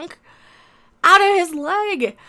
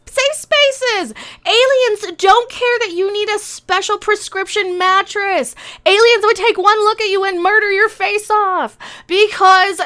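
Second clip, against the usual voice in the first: heated rant; 4 semitones higher than usual. Real, not acted. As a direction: rail against it, pushing up in pitch. Ranting at show's premise.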